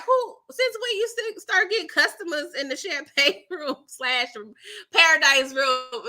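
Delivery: high indignant question; jealous Murda. Retold or imitated. Big Murda questioning the Paradise Room, mock indignant. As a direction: demand answers like a jealous man. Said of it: "Big Murda was like".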